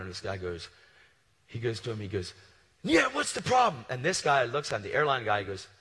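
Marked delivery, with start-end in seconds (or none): 2.8-3.8 high, loud confrontational shout; yelling. Retold or imitated. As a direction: mimic an angry customer picking a fight. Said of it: "he yelled at the other guy too".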